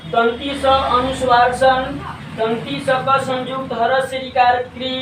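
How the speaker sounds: measured spelling-out, part by part; spelling demonstration. Shown as a demonstration. Teacher repeats the spelling of संस्कृत, deliberate demonstration. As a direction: draw out दंती स अनुस्वार सन slowly. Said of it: "संस्कृत का उच्चारण शुद्ध शुद्ध कैसे".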